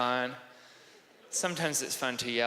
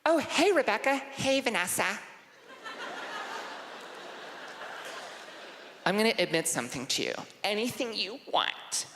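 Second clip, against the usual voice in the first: put-on high, giggly girl voices; dorm girls; 8 semitones higher, 3 dB quieter than usual. Girls greeting each other in the dorm, high giggly. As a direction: gush like teen girls at a sleepover.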